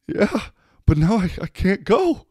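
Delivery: very high mocking whine; whiny drunk guy. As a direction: pitch way up and whine.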